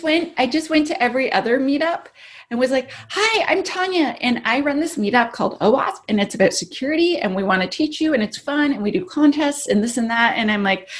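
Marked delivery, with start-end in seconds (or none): 3.1-10.3 higher-pitched, upbeat self-introduction; perky pitch. Retold or imitated. Woman pitching her security meetup at other meetups, perky. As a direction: reenact an eager, chirpy recruiting pitch.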